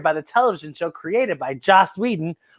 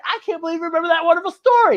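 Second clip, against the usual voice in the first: puppet voice; 8 semitones higher, much faster than usual. Pretend. Voiced puppet Bookie talking.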